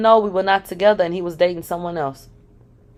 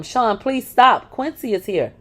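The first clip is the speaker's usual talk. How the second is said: higher, slow frightened pleading; quivering plea; 5 semitones higher, slower than usual. Retold or imitated. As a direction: beg him to stop, scared of the gun. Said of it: "My voice quivered as I played to him".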